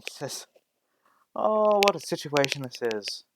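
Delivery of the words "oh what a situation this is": amused father. Acted. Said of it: "her father just laughs out loud".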